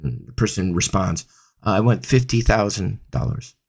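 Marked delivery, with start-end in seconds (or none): 1.6-3.5 timid price quote with a falling voice; unconfident answer. Shown as a demonstration. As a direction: pitch drops off, lower and hesitant. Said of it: "there's no confidence in my voice".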